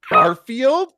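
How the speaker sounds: high, loud shocked gasp of a name; shocked cry. Acted. Crowd sees Garfield walk in, shocked cry. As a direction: everyone gasps the name in shock. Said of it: "cried out everyone in shock".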